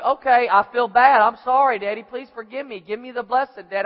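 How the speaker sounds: hammed-up apology to Dad; mock remorse. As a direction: beg forgiveness for show. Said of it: "it looks like".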